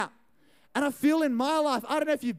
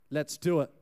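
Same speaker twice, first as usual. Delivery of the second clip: much lower, after a beat; mock conspiratorial; 8 semitones lower than usual. Two friends agreeing to crash the party, low mock-conspiratorial. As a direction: drop low for a conspiratorial pact. Retold shared decision with friend.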